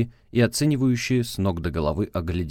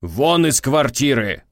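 loud, slow, higher order; angry shout; 6 semitones higher, 8 dB louder, slower than usual. Acted. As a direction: throw her out with a shout. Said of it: "крикнул он".

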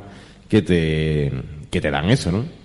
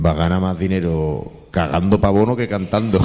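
quoting Paco Gandía; 3 semitones lower than usual. Retold or imitated. Paco Gandía teasing the Mani over his empty plates, deadpan jab. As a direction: deliver the insult straight-faced. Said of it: "cuando ve los platos dice".

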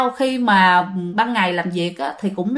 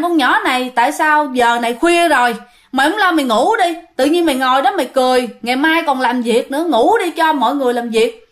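mild scolding; 2 semitones higher than usual. Retold or imitated. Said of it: "cất lên nói chửi".

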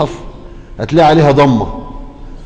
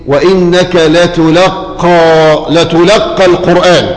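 slow recitation; much slower than usual. Acted. Recites the verse.

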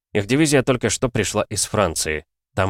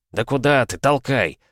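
higher-pitched, mildly exasperated instruction; impatient urging; 5 semitones higher than usual. A narrator's reading. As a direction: urge a fumbling crewmate to push. Crewman urging another at hatch.

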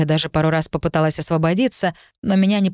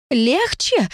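high incredulous cry; cried out; 7 semitones higher than usual. A narrator's reading. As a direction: throw the word back at him. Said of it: "выкрикнула".

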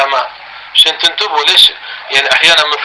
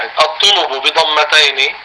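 very slow dictation; slow repeat; slower than usual. Shown as a demonstration. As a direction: repeat slowly so they can write. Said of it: "هرجع".

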